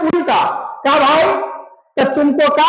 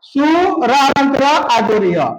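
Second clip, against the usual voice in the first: slow spelling out. Shown as a demonstration. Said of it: "सूर्य को अगर शुद्ध लिखो तो ऐसे".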